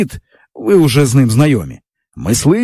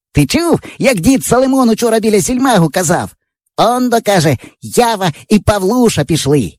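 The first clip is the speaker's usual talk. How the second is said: put-on raised, eager boyish voice; excited boy; 7 semitones higher than usual. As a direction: tell it like thrilling gossip. Yava retelling old man's praise. (захоплений хлопчина переказує діда)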